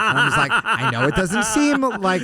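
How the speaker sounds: can barely get it out for laughing. Real, not acted. Laughing while telling the story.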